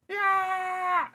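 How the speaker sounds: high cheering yell; excited shout. Acted. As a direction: whoop it out. Running scene.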